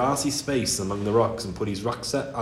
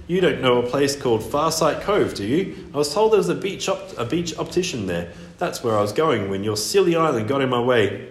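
mermaid voice; 3 semitones higher than usual. Acted. Mermaid voice held.

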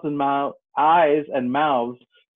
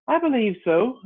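thoughtful; 12 semitones higher, 5 dB louder than usual. Acted. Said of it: "Alice replied thoughtfully".

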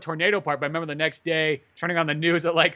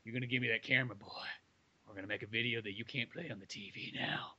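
menacing redneck; 7 semitones lower, 18 dB quieter than usual. Retold or imitated. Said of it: "like I said".

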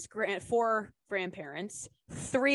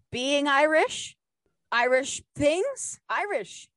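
drawn-out announcement; 6 semitones higher, 4 dB louder, slower than usual. Acted. Playfully announcing her topic.

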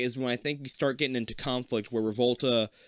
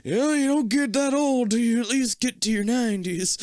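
high, squeaky-pitched laughing reassurance; laughing mock reassurance; 10 semitones higher, 4 dB louder than usual. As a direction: reassure absurdly through laughter. Mock reassurance, moving the bar.

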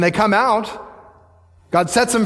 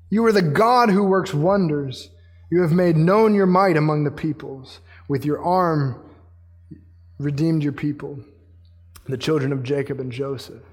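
reverent scripture reading; 3 semitones lower than usual. Real, not acted. Preacher reading to God who works wonders, reverent. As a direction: let each phrase settle with pauses. Reads the psalm slowly, falling.

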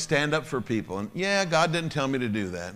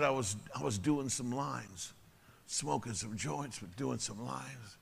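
ashamed confession; 8 dB quieter, slower than usual. Retold or imitated. Kurt confesses his drug relapse.

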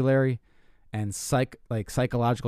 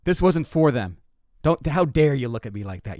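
mock scolding; 2 semitones higher than usual. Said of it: "I'm like".

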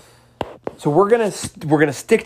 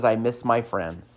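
put-on sad little girl; 3 semitones lower, 5 dB quieter, slower than usual. Crying little girl's words.

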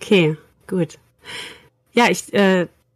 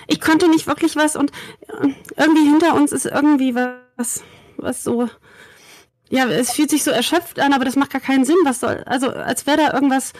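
excited; 4 semitones higher than usual. Acted. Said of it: "bin auf einmal ganz aufgeregt".

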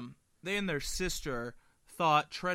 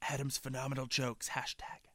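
near-whispered mock plug; hushed aside; 9 dB quieter than usual. Co-host praising his own jokes as hashtag, whispered. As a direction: slip it in under your breath.

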